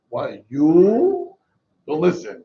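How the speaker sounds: mock-angry, the complaint boils over; mock angry outburst. Imitating anger building up.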